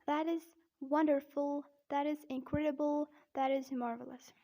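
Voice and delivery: American demo, Rs sounded in wonderful and marvelous; careful rhotic American accent; American-accent praise examples. Shown as a demonstration. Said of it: "But in American accent".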